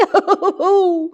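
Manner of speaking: high, wobbling "ooh" of shock; quavering high hoot of dismay; shocked wail. A narrator's reading. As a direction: let out a long fluttering shriek. Mother's shocked hooting wail.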